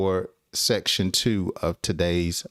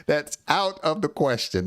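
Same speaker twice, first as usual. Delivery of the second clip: higher, teasing no; playful refusal; 5 semitones higher than usual. Shown as a demonstration. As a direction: laugh it off, teasing. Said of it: "repeat in playful high voice".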